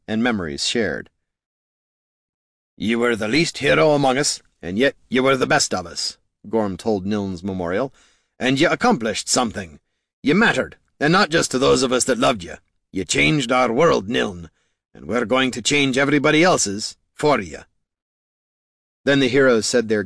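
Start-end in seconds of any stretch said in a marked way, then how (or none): 2.8-6.2 higher, earnest tribute to a fallen friend; lightly voiced gruff-hearted eulogy; heartfelt hero Gorm. 8.4-17.6 higher, earnest tribute to a fallen friend; lightly voiced gruff-hearted eulogy; heartfelt hero Gorm.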